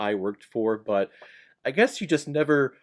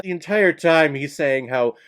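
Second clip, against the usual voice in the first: ordinary delivery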